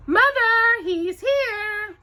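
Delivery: high, loud thrilled call; excited cry. Acted. Drusilla announcing the Duke to mother, excited. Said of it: "cried excitingly".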